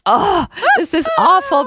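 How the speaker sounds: high, exaggerated groan at her own old show; cringing at an old episode; mock disgust. Host cringing at her old recordings, mock disgusted high voice. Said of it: "and I'm like".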